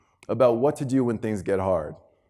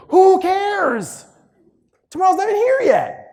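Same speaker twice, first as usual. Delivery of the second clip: high, loud, punchy dismissal; emphatic shout; 8 dB louder than usual. Real, not acted. Speaker firing up the student audience, loud and high. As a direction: throw it at the crowd. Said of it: "rousing the audience".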